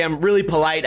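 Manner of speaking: ordinary delivery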